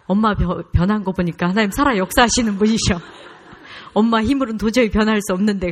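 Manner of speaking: loud, eager testimony; excited son. Retold or imitated. Son telling mother God is alive, loud and eager. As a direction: blurt it out, thrilled.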